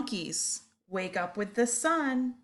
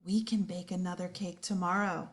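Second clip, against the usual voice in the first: whisper; 3 semitones lower, 6 dB quieter than usual. Acted. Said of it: "One little monkey whispers".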